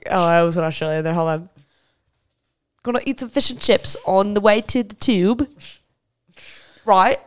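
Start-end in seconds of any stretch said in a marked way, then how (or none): 2.8-5.5 light mock British; British accent. Host planning a day out in London, playful British accent. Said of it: "British accent the entire time". 6.8-7.2 playful British tag question; mock British, rising at the end; British accent. Host keeping up the bit, mock British accent. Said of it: "British accent the entire time".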